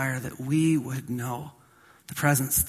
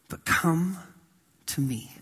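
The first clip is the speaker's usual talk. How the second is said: hushed invitation; 5 dB quieter than usual. Acted. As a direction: drop to a whisper on "to me". Intimate invitation dropping to whisper.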